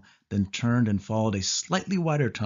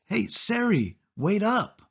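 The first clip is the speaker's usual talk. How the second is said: higher, anxious call after her; 11 semitones higher, slower than usual. A narrator's reading. The boy calls to Sari ahead in the tunnel, anxious. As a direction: call after her as she pulls away.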